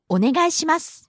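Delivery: お願いします with the last す as just an S sound; unvoiced final su. Shown as a demonstration. Teacher models the phrase for learners, お願いします with final す unvoiced. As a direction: say お願いします, ending on a voiceless hiss for す. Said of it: "it's unvoiced, so you can just make the S sound".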